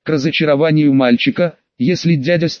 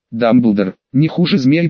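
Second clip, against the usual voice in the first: hissed with a low start; hissing; 3 semitones lower than usual. Acted. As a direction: hiss it like a snake. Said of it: "прошипел колдун".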